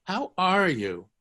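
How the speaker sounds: How are you? stretched out slowly; slow model. Shown as a demonstration. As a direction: spell out the phrase slowly for learners. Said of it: "notice what Hebrew does".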